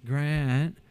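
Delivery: slow, limp sales pitch with no energy; timid salesman. Retold or imitated. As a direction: mumble the pitch as if expecting no. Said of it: "If you want a customer".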